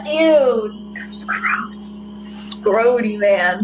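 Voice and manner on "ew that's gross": disgusted whisper. Acted. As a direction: breathe it out in disgust. Disgusted after tackle in mud.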